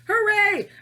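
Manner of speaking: high, loud hooray; big cheer. Pretend. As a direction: shout a cheer for the whole class. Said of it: "give a great big bear cheer".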